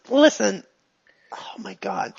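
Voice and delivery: urgent unvoiced whisper. NPC pulls player aside urgently.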